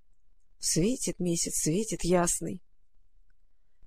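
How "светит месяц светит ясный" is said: slow, soft grumble under the breath; grumbling. A narrator's reading. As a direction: grumble it slowly and quietly. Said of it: "проворчала Маруся". (медленно и тихо ворчит)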